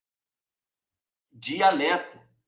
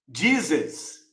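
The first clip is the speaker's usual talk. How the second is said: English Jesus; 3 semitones lower than usual. Shown as a demonstration. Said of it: "também não fala assim".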